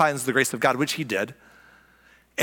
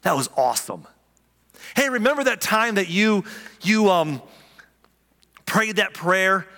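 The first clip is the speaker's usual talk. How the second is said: proud father; 2 semitones higher than usual. Retold or imitated. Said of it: "He'd be like".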